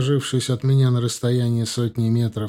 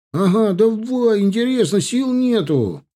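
eager pleading; 11 semitones higher, 6 dB louder than usual. Acted. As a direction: drag it out, egging him on. Солдаты упрашивают рассказать. (нетерпеливо упрашивает)

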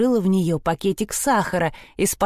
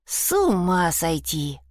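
groaning; slower than usual. Acted. Sprotte groaning at the silly girls, slow. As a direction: sigh it out slowly, fed up. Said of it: "простонала Шпрота".

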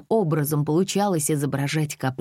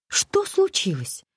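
put-on much higher, slow, girlish questioning; eager question; slower than usual. A narrator's reading. Alisa pesters the crew about the delay, girlish and high. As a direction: ask like an impatient young woman. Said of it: "спрашивала всё время Алиса".

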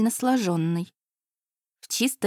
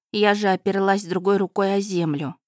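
plain reading voice

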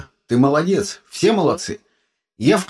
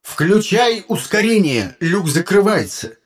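urgent, louder, slower alarm; shouting; 5 semitones higher, 5 dB louder than usual. A narrator's reading. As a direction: yell the warning over the noise. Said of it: "вдруг заорал он". (тревожный крик)

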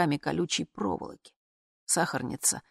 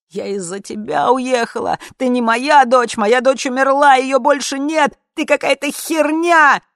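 loud, much higher screaming, slowing at the end; furious screaming; 9 semitones higher, 11 dB louder than usual. Acted. Mother beating her daughter with a fly swatter, furious screaming. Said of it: "и кричать".

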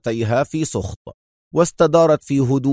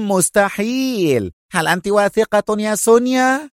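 excited shout; 10 semitones higher than usual. A narrator's reading. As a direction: exclaim in disbelief turning to joy. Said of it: "وهو يصرخ".

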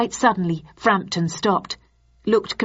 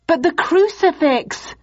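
high desperate shout; 11 semitones higher, 3 dB louder than usual. Acted. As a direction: cry out in panic. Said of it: "I shouted".

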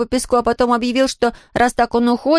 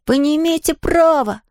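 put-on high, protesting child; indignant kid; 5 semitones higher than usual. A narrator's reading.

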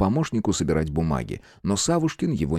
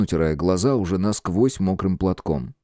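normal talking voice

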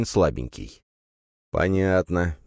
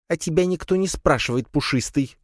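high spider voice, a touch spiteful; squeaky spider snapping at cat; snarled spitefully; 10 semitones higher than usual. Acted. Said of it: "злобно рыкнула на него Лея". (высоким голоском, с лёгкой злобой)

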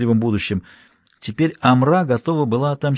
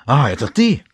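sobbing. A narrator's reading. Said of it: "всхлипнул царевич".

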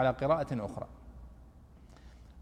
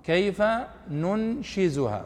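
Quran recitation; slower than usual. Shown as a demonstration. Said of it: "في قوله سبحانه وتعالى".

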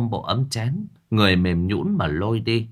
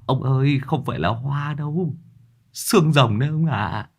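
higher, flustered stammer; 4 semitones higher than usual. A narrator's reading. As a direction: sputter it out, pitched up. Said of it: "Người kia cũng lắp bắp". (giọng cao lắp bắp)

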